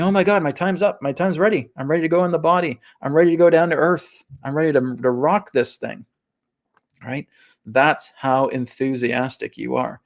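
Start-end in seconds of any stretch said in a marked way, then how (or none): 0.0-6.1 high, eager soul raring to go; hammed-up excitement, pitched up and easing at the end; acted excitement. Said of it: "You are so absolutely excited to come down".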